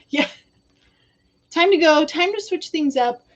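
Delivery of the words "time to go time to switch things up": exasperated. Retold or imitated. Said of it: "I hear him exasperated".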